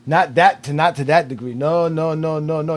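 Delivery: emphatic denial. Real, not acted. Heated basketball argument.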